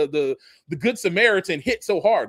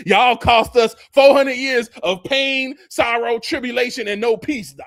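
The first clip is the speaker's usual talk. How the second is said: slow, louder accusation; accusing; 2 semitones higher, 5 dB louder than usual. Acted. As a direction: drag it out, loud and bitter. Acted accusation at oppressors.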